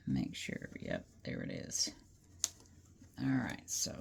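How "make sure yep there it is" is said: breathy murmur to herself; barely voiced, checking something quietly; whispering. Real, not acted. Checking the seam under her breath.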